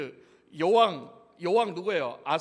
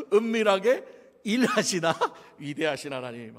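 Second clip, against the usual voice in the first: laughing title; 4 dB louder than usual. Real, not acted. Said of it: "각색을 했습니다".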